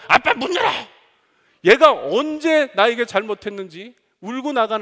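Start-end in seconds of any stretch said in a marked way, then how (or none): 0.1-0.7 much higher, much louder shout; demanding yell. Retold or imitated. Son kicking the door, yelling at dad to open. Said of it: "문을 발로 차고".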